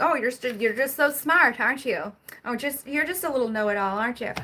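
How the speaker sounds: play-acted, patronising, mocking, condescending talk-down voice. Imitating how people talk down to the speaker, mock-condescending tone. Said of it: "condescending about it... if they're saying it like that".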